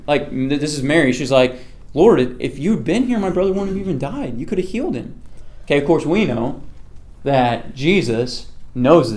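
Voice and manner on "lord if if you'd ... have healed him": lightly acted high-pitched complaint; retold reproach. Mary to Jesus after her brother died, mildly acted reproach. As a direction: imitate a grieving sister's plaintive protest, higher.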